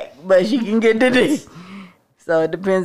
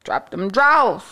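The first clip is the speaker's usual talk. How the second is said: bad acting; slower than usual. Shown as a demonstration. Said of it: "How she say it?".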